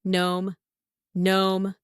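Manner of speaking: "Gnome" with the G silent. Shown as a demonstration. Teacher giving test answer, silent G in "Gnome". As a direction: start "Gnome" straight on n. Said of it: "Silent letter G".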